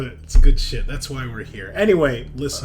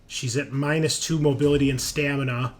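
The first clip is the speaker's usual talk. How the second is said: dramatic, emphatic scene narration; game master narration; 5 semitones higher, 10 dB louder than usual. Acted. Game master describes a critical hit to the players, dramatic narration. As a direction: narrate the brutal blow with punchy emphasis.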